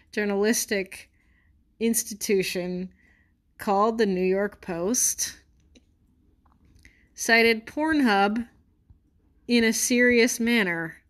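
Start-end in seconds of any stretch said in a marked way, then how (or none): 3.6-11.0 incredulous. Acted. Incredulous at citing Pornhub.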